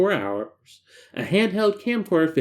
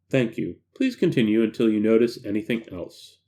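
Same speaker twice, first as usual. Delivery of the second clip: lower control doctor voice; 6 semitones lower than usual. Acted.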